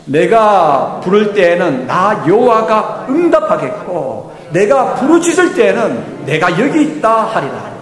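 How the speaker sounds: slow, solemn Bible reading; scripture reading. Acted. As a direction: read the verse out slowly and gravely. Reads Isaiah 58:9 aloud.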